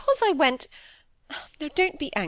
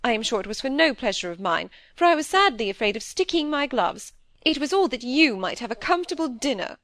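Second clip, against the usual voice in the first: higher, defensive self-justifying flow; plucking up courage; 6 semitones higher, 4 dB louder than usual. A narrator's reading. Wife defends her eavesdropping to husband, plucking up courage. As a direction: face up and justify yourself, pitched higher. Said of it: "gave her courage, she turned and faced him".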